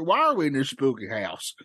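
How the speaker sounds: lightly voiced grizzled miner; a hint of an old prospector; gruff mountain man. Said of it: "it's Prospector".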